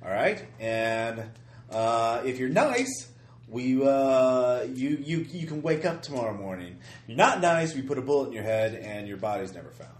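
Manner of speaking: lightly voiced mob threat; mob guy. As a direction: threaten them like a mobster.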